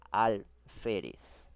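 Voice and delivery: alférez, slow, with the weight on FÉ; stress on second-to-last syllable. Shown as a demonstration. Teacher showing the class an example word, stressed on the penultimate syllable of alférez. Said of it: "Lleva la mayor fuerza de voz en la penúltima".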